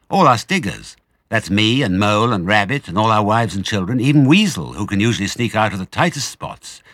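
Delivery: high, loud worried rush; desperate badger. Badger describing the starving diggers, high worried. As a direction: plead for help.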